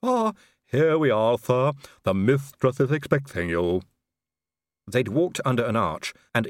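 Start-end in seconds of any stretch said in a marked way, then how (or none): 0.0-3.8 lisping hunched servant voice; a servile Igor drawl. Acted. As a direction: play the creepy loyal servant. Igor's lines in a Discworld reading.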